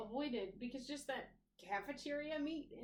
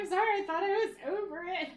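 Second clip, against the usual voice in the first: laughing apology; 6 semitones higher, 9 dB louder than usual. Retold or imitated. Retold apology through laughter.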